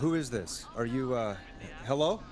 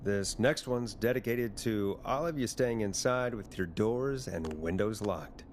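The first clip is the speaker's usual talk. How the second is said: ominous radio host; slower than usual. Acted.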